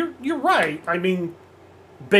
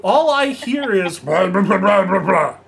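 high mocking Joker voice, louder; mocking blah blah; 4 semitones higher, 6 dB louder than usual. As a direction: taunt him as the Joker. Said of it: "And he's just like".

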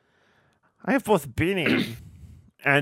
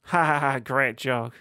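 annoyed laugh. Acted. Sarcastic fake laugh.

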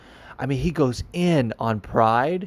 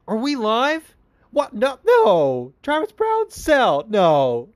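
much higher, flustered, caught off guard; startled on air; 11 semitones higher, 4 dB louder, much slower than usual. Retold or imitated. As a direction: panic as if you just realized the mic is live. Chael caught off guard on live TV.

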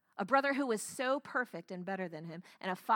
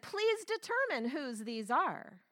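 slow, drawn-out mock-polite request; sly sarcastic challenge; 3 semitones higher than usual. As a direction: ask with pointed, knowing sarcasm. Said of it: "I love her sarcasm".

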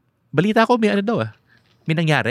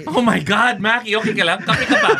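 giddy, high and loud laughing; overcaffeinated and bubbly; too much caffeine; 12 semitones higher, 5 dB louder than usual. Real, not acted. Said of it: "tama na yung kape".

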